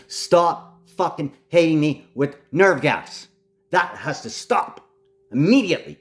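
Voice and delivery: fed up, demanding it stop now; real anger. Real, not acted. Ranting man demands enemies stop, angry. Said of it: "Okay, I'm really angry".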